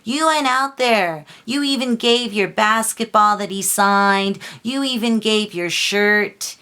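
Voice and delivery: heated, emphatic accusation; pissed off. Real, not acted. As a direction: call out the hypocrites angrily. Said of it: "this stuff has really pissed me off lately".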